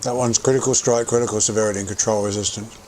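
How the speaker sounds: talking while eating; words round a mouthful; mouth full. Real, not acted. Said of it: "Excuse me for talking with my mouth full".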